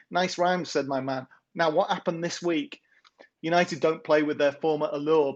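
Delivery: rhythmic, sing-song verse reading; poem recital. Acted. Poet reads his weekly football poem to the podcast hosts, rhythmic recital. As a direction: read the rhymes with a steady lilt.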